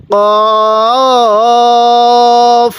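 কফ with a short rounded o, not কাফ; correct pronunciation. Shown as a demonstration. Teacher correcting viewers: কফ with a short o, not কাফ. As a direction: say কফ firmly with a short o, never a long a. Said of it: "এটা কিন্তু কাফ না".

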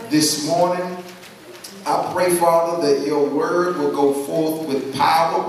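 steady, earnest prayer voice. Acted. Preacher praying over the congregation, earnest. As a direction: lead the church into prayer.

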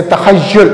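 "तखय्युल" with a clear short u before the final l; u on third letter. Shown as a demonstration. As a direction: say "तखय्युल" as "ta-khay-YUL", u in the last syllable. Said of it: "तीसरे पर हमेशा पेश पढ़ा जाता है".

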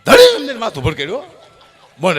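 ordinary talk, nothing marked

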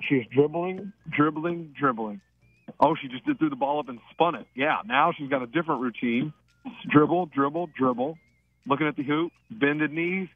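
live free-throw commentary, building to each shot; playful play-by-play. Acted. Radio host calling a caller's free throws, mock sportscaster. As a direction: call every dribble like a courtside announcer.

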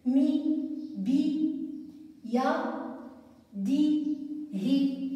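slow singsong reading split into syllables. Shown as a demonstration. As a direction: sound out each syllable for small children. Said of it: "سأحد مقاطع كلماتها". (قراءة مقطعية بطيئة منغّمة)

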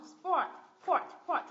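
"port" pitched high and firmly stressed; stressed syllable. Shown as a demonstration. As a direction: hit "port" clearly. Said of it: "mình nhấn vào tiếp thứ hai".

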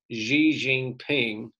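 "Xi Jinping" slowly, as zhee-zhing-ping; demonstrated pronunciation. Shown as a demonstration. Teacher shows students how the leader is named, "Xi Jinping" pronounced slowly as zhee-zhing-ping. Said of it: "that's how you pronounce that".

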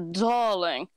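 drawn-out, slow character line; Rainbow trigger line. Shown as a demonstration. Actor shows friends her Rainbow warm-up line, lightly voiced character. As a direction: stretch the word into Rainbow's voice. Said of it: "what line do you do to get into your characters".

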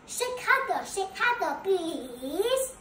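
a lamb's mock shout; mild pleading shout. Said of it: "shout the lamb".

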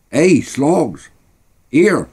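high-pitched shout to a mate; calling out. A narrator's reading. Bobby calling Slogs back up the street, shouting. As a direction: call him back, high and sharp. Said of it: "shouted Bobby".

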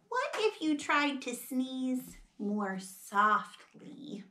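soft, slow, careful request; gentle suggestion. Acted. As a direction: ask quietly and tactfully. Piggy gently asks for softer sneezes.

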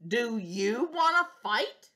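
slow, loud taunting challenge; slow bossy bug voice; grouchy challenge. Acted. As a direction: drag out the dare. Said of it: "grouchy challenge".

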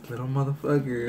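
understated, amused suspicion; smirking. Retold or imitated. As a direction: say it through a slight smirk. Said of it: "he had, like, a smirk".

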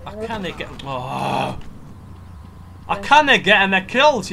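high, mock-whiny echo swelling loud; loud, jeering parody of a complaint; mocking imitation. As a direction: throw the friend's moan back in mockery.

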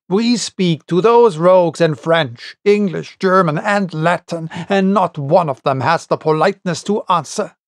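mild exasperated rant, picking up speed at the end; exasperated outburst. Acted. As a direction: vent the frustration, understated. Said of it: "who broke out for the twentieth time".

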